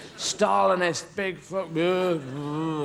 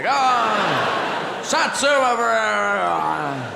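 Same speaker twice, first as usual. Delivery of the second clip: pushy offer; 2 semitones higher, 5 dB louder, much slower than usual. Acted. Offering satsuma segment.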